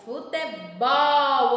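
futebol drawn out slowly, syllable by syllable; slowly stretched word. Shown as a demonstration. Teacher to children, slowly spelling out the word. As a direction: stretch Futebol slowly so kids hear each sound. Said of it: "Olha o ol na palavra futebol".

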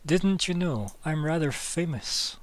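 lightly voiced amused character; amused game character. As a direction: stretch it out with playful self-importance. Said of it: "He laughs and says".

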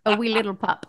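a hint of a Scottish storybook voice; light Scottish accent. Shown as a demonstration. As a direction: read it like a Scottish children's book, lightly. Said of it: "Can you do the Scottish accent".

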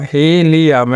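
হি, লি, আম as three separate beats; syllable by syllable. Shown as a demonstration. Teacher divides helium for learners, each syllable said separately. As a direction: break the word into হি, লি, আম. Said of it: "হি একটা syllable".

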